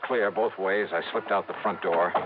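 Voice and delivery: steady narrator voice over music; radio detective narration. A narrator's reading. Johnny narrating his stakeout to listeners, detective narration. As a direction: tell it like a hard-boiled case report.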